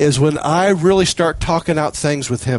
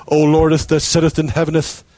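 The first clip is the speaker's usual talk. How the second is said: mock King James prayer. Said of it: "the King James Elizabethan".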